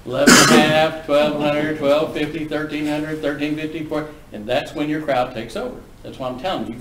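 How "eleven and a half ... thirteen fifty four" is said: rapid bid calling, first words shouted; mimicking a yahoo bidder. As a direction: rattle off the bids like an eager novice. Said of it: "some yahoo goes this".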